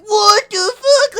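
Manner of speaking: high, loud, stretched-out shocked cry; slow, drawn-out cry of shock; shocked what the fuck. Retold or imitated. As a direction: let it burst out in disbelief. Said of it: "my reaction was like".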